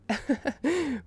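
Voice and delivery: short, soft chuckle; quiet little laugh to oneself. Real, not acted. Narrator amused by own sarcastic joke, soft chuckle.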